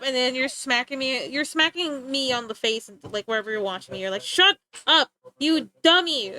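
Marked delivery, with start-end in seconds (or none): 4.2-6.3 louder and higher, a playful mock shout; mock yell. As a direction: snap at him like an annoyed viewer. Viewer voiced yelling at him.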